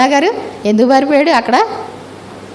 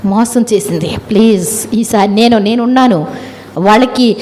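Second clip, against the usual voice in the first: earnest pleading prayer. Acted. Jesus pleading with God in Gethsemane, earnest plea. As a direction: plead for them as if your heart is breaking, understated.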